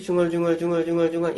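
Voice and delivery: even, stressless run of "중얼중얼"; mumbling without stress. Shown as a demonstration. Showing why foreigners can't follow Korean, "중얼중얼" mumbled evenly. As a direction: mumble "중얼중얼" with no beat standing out. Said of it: "아무런 강세 없이".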